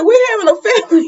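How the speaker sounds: high, fast, hammed-up teary gush; mock teary news. Acted mock tearful announcement.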